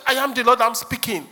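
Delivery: indignant fake prophet; mock prophet. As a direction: insist like a prophet refusing to stop. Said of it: "they were tapping him".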